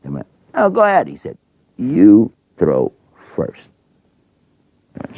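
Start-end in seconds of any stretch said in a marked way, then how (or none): 0.5-1.1 much higher, pushy magician's voice; magician's mock insistence. Magician insists Moses go first. 1.8-3.7 slow, deliberate and calm; every word given its own time; Moses, unhurried. Pretend. Moses insists again.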